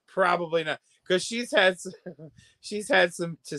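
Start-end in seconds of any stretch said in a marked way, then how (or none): 0.1-0.8 laughing. Real, not acted. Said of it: "Do I think it was a coincidence?".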